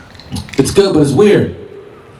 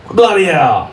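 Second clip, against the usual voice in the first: higher, mock British ship guard; bad British accent; 4 semitones higher, slower than usual. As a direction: exclaim in a badly faked British accent. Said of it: "Sorry, excuse the accent".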